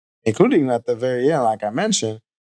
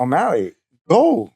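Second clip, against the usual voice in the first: cheering scream; 4 semitones higher, slower than usual. Retold or imitated. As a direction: yell encouragement from the crowd.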